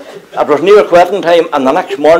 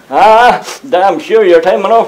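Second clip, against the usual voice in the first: a higher, lightly voiced night watchman; watchman's catchphrase; 5 semitones higher than usual. Night watchman greets the latecomer, higher mimicked voice. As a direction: imitate the watchman's greeting, pitched up.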